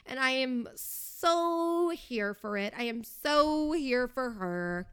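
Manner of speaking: slow, stretched-out gush; drawn-out gush. Real, not acted. Fan gushing about Jamie Lee, slow and drawn out. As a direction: really lean into the so.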